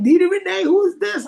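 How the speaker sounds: high, bright host answering the line; radio host. Retold or imitated. DJ picking up a listener's call on air. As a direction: greet the caller like a DJ. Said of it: "She was like".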